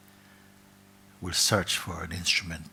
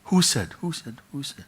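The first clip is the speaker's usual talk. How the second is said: calling out then fading; 7 semitones higher, 5 dB louder than usual. Acted. Seeker calling into the cave, fading. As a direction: call it, then let it die away.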